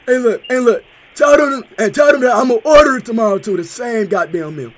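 hammed-up prank caller raving about chicken. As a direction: play a rowdy, overexcited customer on the phone. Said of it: "Speed, stop shouting".

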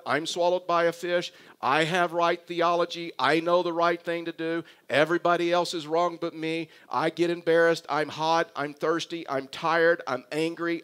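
mildly loud, insistent list of grievances; aggrieved Jonah. Acted. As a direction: pile up complaints in even, punched phrases. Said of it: "See, Jonah is thinking".

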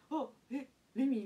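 can't believe it's her; confused surprise. Retold or imitated. Player hears she bats second, disbelieving. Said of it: "みたいな感じになって、".

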